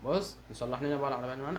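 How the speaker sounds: ordinary delivery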